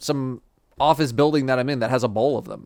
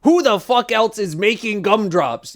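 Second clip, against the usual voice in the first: louder, slow and scoffing; incredulous outburst; 6 semitones higher, 4 dB louder than usual. Real, not acted. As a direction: drag it out in disbelief. Scoffing at number one claim.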